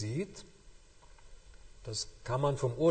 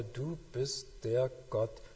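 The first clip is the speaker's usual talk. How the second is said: tender hush; 2 semitones lower, 7 dB quieter than usual. Shown as a demonstration. Tender closing of the thought.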